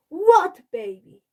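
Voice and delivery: high, loud, slow outraged question; indignant shout. A narrator's reading. Peter shouting at Dad over the new baby, indignant. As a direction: fire it back in disbelief. Peter feigns ignorance, upset.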